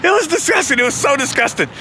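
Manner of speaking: high, insistent mock agreement; feigned disgust. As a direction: overdo the disgust to hide your guilt. Feigned agreement to hide guilt.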